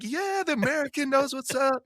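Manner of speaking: high, mock German-accented cheer; imitating cheering Germans. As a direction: celebrate in a put-on German accent. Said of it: "They're like".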